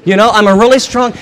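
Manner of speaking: rising, overwrought insistence; emotional. Acted. Mary insisting she can carry the body, overwrought. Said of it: "do you hear her? She's just emotional".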